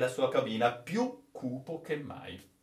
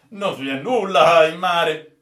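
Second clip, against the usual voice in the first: loud, higher-pitched contradiction; raised-voice protest; forceful denial; 4 semitones higher, 11 dB louder than usual. Acted. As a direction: insist over his raving, loudly. Sailor contradicts raving officer loudly.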